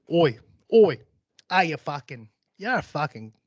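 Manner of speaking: rough-and-ready Aussie swearing; Australian accent. Acted. Warming up for the killer's song in an Australian accent. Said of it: "I lost me Australian accent".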